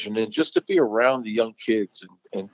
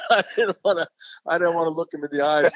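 laughing; 5 semitones higher than usual. Real, not acted. Laughing about avoiding Dusty.

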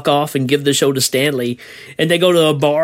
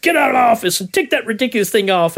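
quick, higher barked order; barking tyrant boss; 6 semitones higher, faster than usual. Retold or imitated. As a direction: bark it fast like a boss. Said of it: "And he's like".

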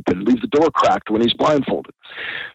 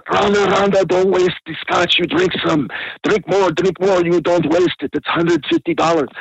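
higher-pitched mock pleading; higher, urgent imitation of a protest; retold protest; 6 semitones higher than usual. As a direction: imitate him fussing in a raised pitch. Retold protest over poured scotch.

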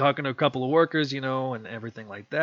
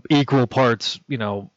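normal talking voice

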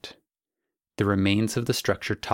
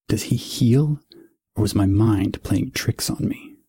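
louder, startled demand; alarmed; 6 dB louder than usual. A narrator's reading. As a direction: shaken hero calls out. Eidolon alarmed in battle.

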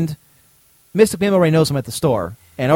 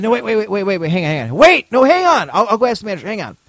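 mock panicked salesman; 5 semitones higher than usual. Salesman calling out as the customer heads for the door. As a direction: call him back before he walks out.

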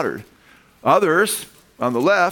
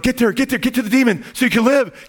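crowd cheering; 9 semitones higher than usual. Retold or imitated. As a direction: chant it like fans rooting for the hero. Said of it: "The people are like".

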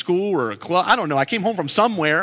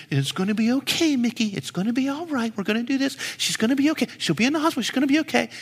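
lightly voiced tearful aunt, a little higher; aunt comforting through tears; 5 semitones higher, faster than usual. Aunt consoling young Mickey, a hint of tears. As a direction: soothe the boy like a crying aunt, mildly. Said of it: "she's in tears".

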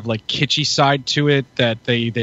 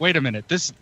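higher-pitched retold protest; mock disbelief; 5 semitones higher than usual. Husband tricked into watching teen drama, mock disbelief. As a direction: act out realizing you've been had.

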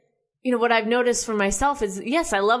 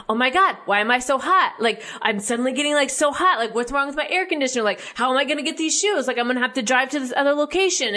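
mock freaking out; 3 semitones higher, faster than usual. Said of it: "like, freaking out".

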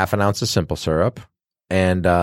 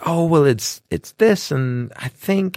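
lightly voiced higher-pitched customer; imitated unsure customer; 7 semitones higher, slower than usual. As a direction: imitate someone guessing, trailing into a slow finish. Imitating unsure customer explaining drink.

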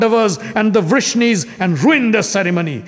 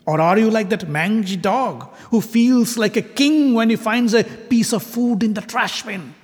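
scornful rebuke; 4 semitones higher than usual. Acted. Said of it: "He turned towards Krishna and said".

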